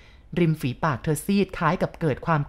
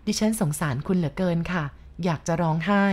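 ordinary delivery, nothing marked

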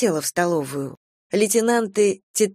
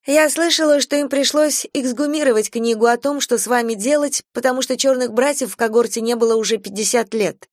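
put-on much higher young girl's voice; 6 semitones higher than usual. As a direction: pitch it up high and chatty. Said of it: "говорила высоким голосом".

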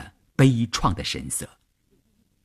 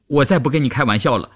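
frightened plea; 5 semitones higher than usual. A narrator's reading. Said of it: "双腿发软地说".

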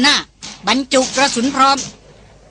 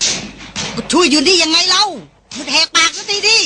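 mild scold; 5 semitones higher, slower than usual. Acted. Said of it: "ระพินตวาดกรอกหูหล่อนดังสนั่น".

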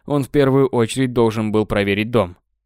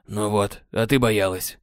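Sam teasing; 2 semitones lower, 3 dB quieter than usual. Acted. Sam teasing after start.

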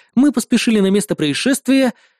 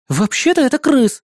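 correcting; 6 semitones higher than usual. Acted. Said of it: "поправила её Лия".

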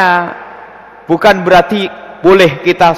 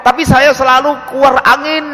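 mock questioner; 7 semitones higher than usual. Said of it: "ada ngomong".

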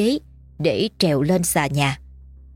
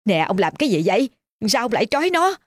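tearful; 5 semitones higher, faster than usual. A narrator's reading. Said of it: "nước mắt ngắn dài".

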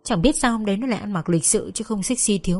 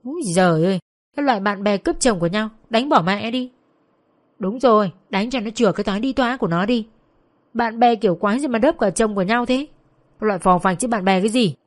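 raised, scornful jeering; angry cursing; 2 semitones higher than usual. Acted. Passers-by curse Vân as a husband stealer, scornful jeering. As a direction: egg the attackers on with insults. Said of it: "có người còn chửi".

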